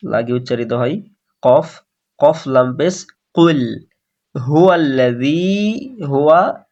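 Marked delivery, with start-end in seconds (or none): 1.4-3.8 spelled out কফ লাম পেশ কুল with full heavy ক; letter by letter. Shown as a demonstration. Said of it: "প্রথমে কফটাকে পুর করে লাম বারিক". 4.5-6.0 হুয়াল্লাযী with quick short vowels; recited demo. Shown as a demonstration. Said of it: "তাড়াতাড়ি বলবো".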